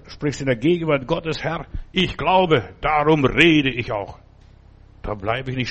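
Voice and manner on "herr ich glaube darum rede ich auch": slow confession. Acted. Zitiertes Bekenntnisgebet.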